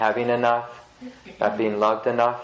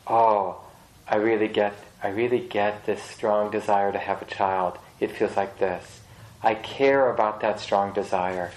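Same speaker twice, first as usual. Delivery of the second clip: wise inner voice; 3 semitones lower than usual. Retold or imitated. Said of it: "the wise movement in that would have been".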